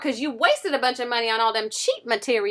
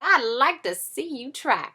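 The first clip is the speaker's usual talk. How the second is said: slow, cool taunt; 3 dB quieter, slower than usual. Acted. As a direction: dare him calmly. Sister taunts wolf.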